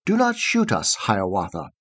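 put-on robin pleading with the young hunter; birds pleading. A narrator's reading. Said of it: "Sang the robin".

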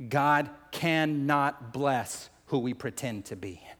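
slow, measured statement of a key point; deliberate preacher's pace, weight on "cannot bless"; slow, solemn emphasis. Real, not acted. Key point, said slowly, then repeated.

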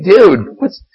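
high, heated disbelief; a fed-up mock rant; mock outraged Jesus. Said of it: "He was like".

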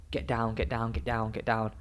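soft, muttered urging to the ball; hushed self-talk; urgent inner plea. Retold or imitated. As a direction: mutter it under your breath, repeated. Voicing his anxious thoughts mid-shot.

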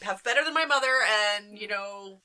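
mock transatlantic accent, lightly done and quick; a light, fast hint of a posh transatlantic accent. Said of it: "it's a transatlantic accent".

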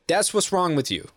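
hammed-up scolding teacher; mock tirade. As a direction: rant in imitation, climbing into a repeated jabber. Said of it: "this racist tirade".

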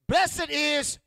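loud, high call with real feeling; preacher demonstrates the call with soul. Shown as a demonstration. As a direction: put some mm in it. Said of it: "put some mm in it".

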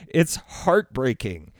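slow, sinking, heartbroken repeat; falling heartbreak. Real, not acted. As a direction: let it settle down, slow and sad. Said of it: "I'm starting to get emotional".

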